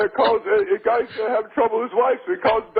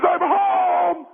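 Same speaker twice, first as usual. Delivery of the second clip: higher call, announcing he is back; 6 semitones higher than usual. Acted. Husband calling to his wife upstairs, a high call. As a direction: sing out that you're home.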